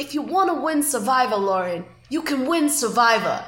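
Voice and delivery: lightly imitated Boston veteran giving a pep talk; a hint of Boston accent, encouraging a protégée; Boston Rob. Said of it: "Great impression".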